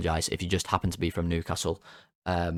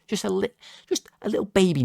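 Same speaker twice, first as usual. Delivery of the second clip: high playful voice; 11 semitones higher than usual. Real, not acted. Tiny notch, playful.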